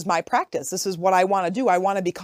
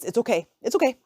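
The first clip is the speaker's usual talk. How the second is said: self-reassurance; 5 semitones higher, faster than usual. Retold or imitated. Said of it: "what I end up saying is".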